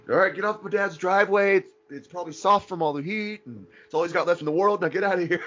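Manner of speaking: imitating Julian. Friend retells Julian clearing the driveway, in a high loud mock voice. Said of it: "Julian's like".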